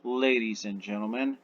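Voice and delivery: theatrical opening of a show; showman's announcement. Acted. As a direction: announce it grandly, stretching the last words. Lich hushes crowd, announces the show.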